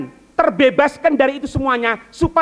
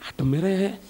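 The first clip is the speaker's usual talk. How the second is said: mock heat complaint; 6 semitones lower, 9 dB quieter than usual. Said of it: "dia katakan".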